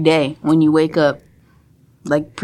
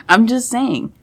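radio voice; 6 dB quieter than usual. Real, not acted. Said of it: "continue with your radio voice".

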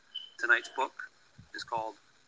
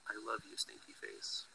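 soft whisper into the ear; whispered love; 11 dB quieter than usual. Acted. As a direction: hush it tenderly, close to the ear. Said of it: "I'd whisper in your ear".

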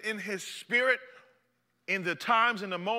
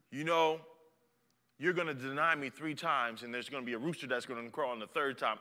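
quiet Jesus voice; 5 semitones lower, 5 dB quieter than usual. Acted.

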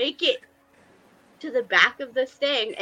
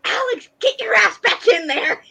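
higher, louder mock yell from afar; raised yell across the set; retold yell; 11 semitones higher, 6 dB louder than usual. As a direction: call someone back onto set. Director yelling from Video Village.

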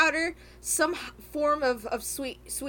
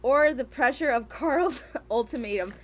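reading aloud; 3 semitones lower than usual. Acted. Host reading the novel excerpt to co-hosts. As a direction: read the passage, a touch flat.

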